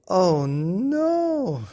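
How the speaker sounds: high, loud oh no; exasperated cry. Acted. Daddy Bear kept awake by the clock, high loud wail. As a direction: wail it, fed up. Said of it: "said Daddy Bear".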